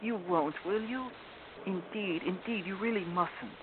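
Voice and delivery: put-on high, anxious girl's plea; pleading little Lucy. A narrator's reading. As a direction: beg him in a small, high-pitched voice.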